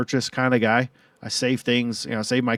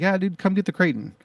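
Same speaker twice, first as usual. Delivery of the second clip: higher, lightly voiced easygoing buddy; imitating buddy; 8 semitones higher than usual. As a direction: play the relaxed friend waving it off. Friend urging him over.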